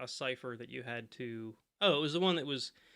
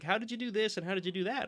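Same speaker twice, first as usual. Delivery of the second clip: quoting friend; 7 semitones higher than usual. Retold or imitated. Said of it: "he's like".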